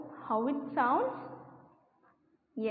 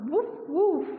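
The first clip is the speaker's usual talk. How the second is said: dog bark; 2 semitones higher, 3 dB louder than usual. Shown as a demonstration. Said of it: "it sounds".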